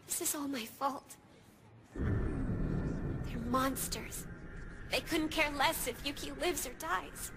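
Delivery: low, hushed self-blame; very soft, low-pitched brooding; guilty despair. Acted. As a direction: murmur it low, sinking into grim resolve. Blames self, then grimly resolves.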